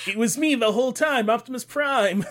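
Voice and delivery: dramatic reveal. Retold or imitated. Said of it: "voicing Peter Cullen".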